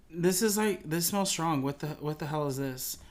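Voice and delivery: suspicious. Retold or imitated. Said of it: "she smells it, and she's like".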